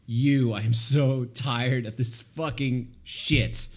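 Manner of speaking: fed-up mock outburst, slow and loud; drawn-out, exasperated retelling of a breakdown; imitating tearful outburst. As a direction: lean hard on each word, acting exhausted anger. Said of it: "and she's crying, and she's like".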